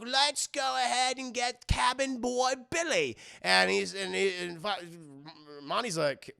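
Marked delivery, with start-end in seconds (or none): 0.0-3.2 higher, slow pirate voice; hammy pirate drawl; pirate rat. Retold or imitated. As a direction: propose it as a pirate crewmate. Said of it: "he's like".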